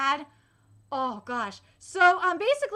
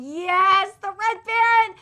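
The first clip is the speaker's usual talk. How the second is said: excited hype; 4 semitones higher, 8 dB louder, slower than usual. Real, not acted. Hyping the Red Baron.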